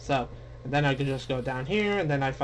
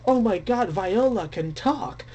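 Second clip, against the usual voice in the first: surprised; 6 semitones higher than usual. Retold or imitated. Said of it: "And I'm also like".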